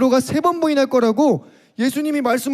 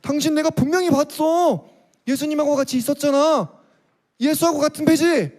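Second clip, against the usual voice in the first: stern accusation; 5 semitones higher than usual. Acted. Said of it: "정색을 하고".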